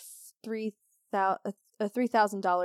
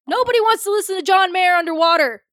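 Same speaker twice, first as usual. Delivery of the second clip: exasperated outburst; 7 semitones higher, 10 dB louder than usual. Real, not acted. Mock outrage about bad headphones.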